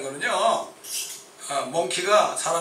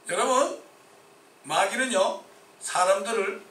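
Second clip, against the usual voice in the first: rising fervent warning; preaching warning; 3 semitones higher, 3 dB louder, slower than usual. Real, not acted. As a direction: sound the alarm. Preacher warning about the devil.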